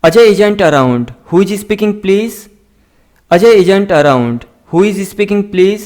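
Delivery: slow, careful dictation of each word; slow model reading. Shown as a demonstration. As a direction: read it out slowly for learners to copy. Teacher slowly models English sentences. (धीमी, साफ़ पढ़ाने वाली आवाज़)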